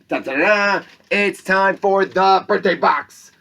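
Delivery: sing-song fanfare, then a slow, loud, high announcement; jingle-style fanfare. Acted. School announcer introducing the birthday box with sing-song fanfare. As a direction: herald it like a game-show reveal.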